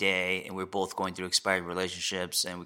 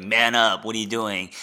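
macho brush-off; 7 dB louder than usual. Retold or imitated. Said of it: "the machismo guy that's just, like, kind of wanted to push him away".

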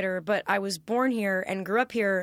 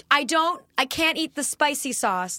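imitating mom; 5 semitones higher, 4 dB louder than usual. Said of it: "And she's like".

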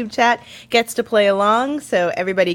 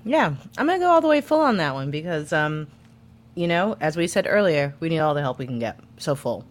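talking while chewing crunchy food; chewing noisily. Real, not acted. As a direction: speak through a crunchy mouthful. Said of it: "it's very crunchy, that thing you're eating".

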